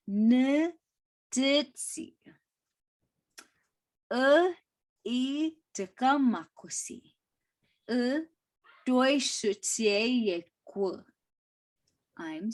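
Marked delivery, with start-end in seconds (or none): 0.1-11.0 slower, higher, spaced-out phrases. Shown as a demonstration. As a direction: pause between each chunk, slower this time. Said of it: "Let me try to say it slower".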